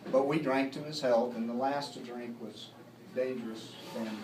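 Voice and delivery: rhythmic saloon ballad, each line opening firmly; narrative poem recitation. Acted. Reciting The Shooting of Dan McGrew for an audience, ballad storytelling. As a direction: tell the tale in rolling verse, pausing between couplets.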